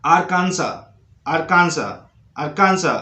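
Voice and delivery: Arkansas said as "Arkansa"; silent final S in Arkansas. Shown as a demonstration. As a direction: drop the last S of Arkansas, word by word. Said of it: "इसको बोलते हैं".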